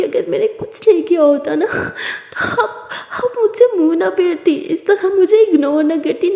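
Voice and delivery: pleading while half crying; tearful plea. Acted. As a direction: voice breaking through tears and laughs. Tara crying, pleading with Siya. (रोते रोते माफ़ी माँगना)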